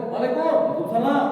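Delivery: high loud short salam; half-hearted short salam; curt reply. Shown as a demonstration. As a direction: toss off the short answer.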